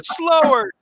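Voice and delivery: screamed director's order, high and loud; George. Retold or imitated. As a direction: yell each word as a separate command across the set. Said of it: "George would scream".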